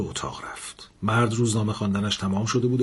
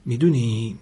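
suspicious; 3 semitones higher, much slower than usual. Acted. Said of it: "لاله مشکوک گفت".

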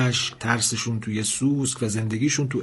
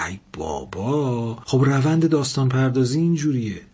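exasperated. Acted. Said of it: "اشکان کلافه گفت".

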